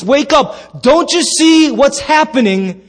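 alarmed call, stretching into the question; panicked. Acted. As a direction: cry out to rouse a sleeper. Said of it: "disciples in a panic".

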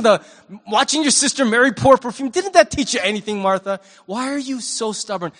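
hammed-up impatient rebuke; mock scolding. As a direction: scold her like a frustrated teacher. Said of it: "I might have chided her".

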